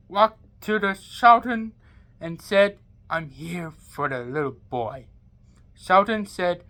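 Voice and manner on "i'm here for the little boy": lower, softer menacing villain; low villain line. Acted. Villain telling the Sultan he came for the boy, low menace. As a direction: state your claim with cold threat.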